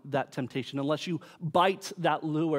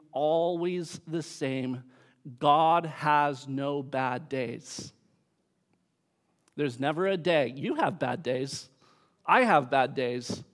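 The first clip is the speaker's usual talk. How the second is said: louder proclamation with weighted key words; emphatic preaching; 6 dB louder than usual. Real, not acted. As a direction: proclaim it firmly to the congregation. Preacher proclaims God never changes.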